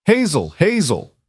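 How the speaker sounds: high, slow, loud scream; screaming her name. A narrator's reading. Mother screaming after her daughter's wagon, drawn out. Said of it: "she kept screaming".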